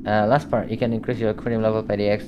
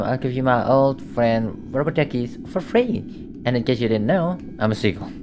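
posh voice. Acted. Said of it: "that guy have a really posh voice".

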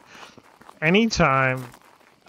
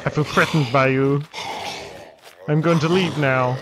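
loud mock posh English; posh English accent; 3 dB louder than usual. Player backs out of roleplay encounter, mock posh English accent. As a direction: announce it in put-on posh English, projected. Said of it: "put, like, a posh accent on".

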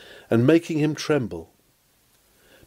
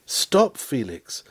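urgent call; slower than usual. Acted. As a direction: call him back before he leaves. Pleading with Felix to stay.

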